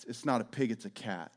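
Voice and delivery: low, soft imitation of a confessing child; quiet confession. Child sheepishly confesses to mother.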